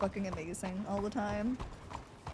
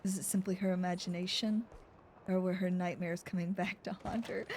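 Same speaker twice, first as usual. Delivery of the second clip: noir narration; 3 semitones lower, 3 dB quieter than usual. Acted. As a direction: read it like a film noir opener. Narrates noir detective story.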